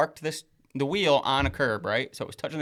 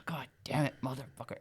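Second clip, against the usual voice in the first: retold muttered cursing; 8 dB quieter than usual. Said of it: "he just keeps saying it".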